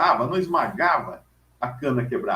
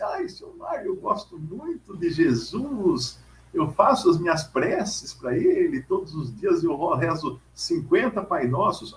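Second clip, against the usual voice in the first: pious lady; 3 semitones higher than usual. Retold or imitated. Church lady telling the preacher about her prayers, lightly voiced. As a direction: play the sweet churchgoer boasting of her prayers. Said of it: "vem uma pessoa e fala assim".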